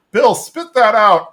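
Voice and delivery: called out loud and high, slow; mock yell at a friend; retold yell. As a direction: yell across the yard at Bill. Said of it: "Hank yells out".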